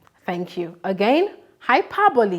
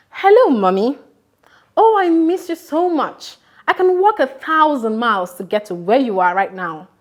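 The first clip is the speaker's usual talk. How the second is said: louder, yearning call to mommy; missing mother; 4 semitones higher, 4 dB louder than usual. Shown as a demonstration. Teacher calling her mother to show hyperbole, yearning. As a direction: pour out longing on the phone. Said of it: "I'm going to do mine from here".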